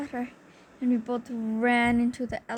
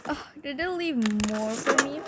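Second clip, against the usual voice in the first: greedy robber; 2 semitones higher, 3 dB louder than usual. Retold or imitated.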